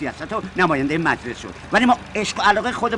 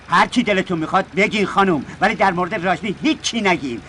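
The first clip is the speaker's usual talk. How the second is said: indignant; 5 dB louder than usual. Acted. Driver defends his idol Rajni.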